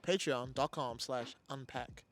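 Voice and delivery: slow, polished announcer voice; code-switch into a careful proper voice; white voice. Pretend. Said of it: "I like how you put your white voice on".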